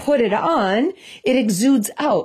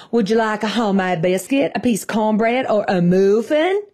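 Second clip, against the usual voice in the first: mock Southern accent. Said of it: "put on his fake accent".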